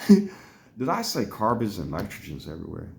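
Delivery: slow self-questioning replay; retold puzzled realisation. Patient questioning own words after coming to, retold puzzlement. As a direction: ask it slowly, in full voice, puzzling it out. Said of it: "when I came to and was really thinking".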